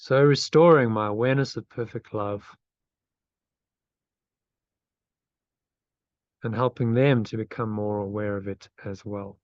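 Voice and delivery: meditative phrase-by-phrase reading, long pauses; slow affirmation reading. Real, not acted. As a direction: lead a repeat-after-me affirmation, unhurried. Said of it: "so I'll read it slowly".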